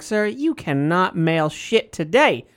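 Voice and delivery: slow, stiff clerk refusing service; postal clerk voice. Retold or imitated. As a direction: drawl it out like a bored clerk. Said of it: "Huggy Bear walked into his post office".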